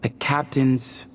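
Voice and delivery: slow, grave reading of an ancient decree; solemn inscription reading. Acted. Reading the king's carved message to companions, slow and solemn. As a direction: intone the king's words slowly. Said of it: "I'll try and translate it".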